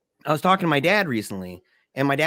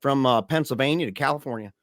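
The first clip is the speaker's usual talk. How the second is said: impression of dad on a game show; 2 semitones higher than usual. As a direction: do your dad on Press Your Luck in 1984, eager and hammed-up. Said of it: "let me try my best".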